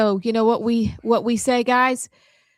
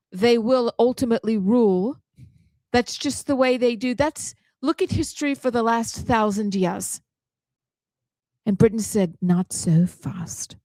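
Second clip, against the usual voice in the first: put-on British accent; speechifying in a mock British accent. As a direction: tell it like a British commentator. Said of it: "I think that is your best accent".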